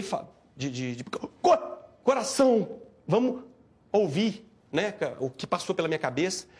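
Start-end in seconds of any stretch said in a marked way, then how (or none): 1.0-4.4 first syllable caught voiceless, then the word higher; retold choking on the word. Man recalls trying to speak, retold choked stammer. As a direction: choke on the start, then get it out. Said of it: "quase que eu engasguei".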